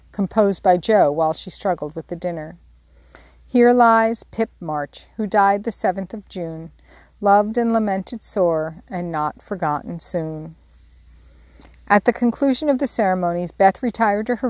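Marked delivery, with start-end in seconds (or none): 3.4-10.5 slow, solemn graveside recitation; solemn epitaph recital. Acted. At the pet's grave, Jo's epitaph read slowly and solemnly. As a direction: read the little epitaph slowly like a mock funeral verse.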